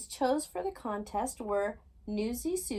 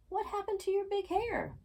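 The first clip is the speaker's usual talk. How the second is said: 1 surprised; 11 semitones higher than usual. A narrator's reading. Daisy bewildered by queen.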